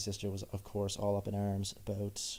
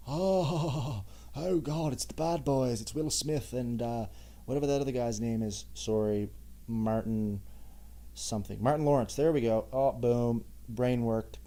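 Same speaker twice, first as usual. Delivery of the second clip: mock drunk panic. Acting drunk shock at cops.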